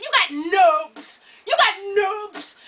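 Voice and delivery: slow, laughing mock; laughing tease. Daughter teasing her mom about nubs, slow and laughing. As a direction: drag out the jab through laughter. Teasing mom's broken nails.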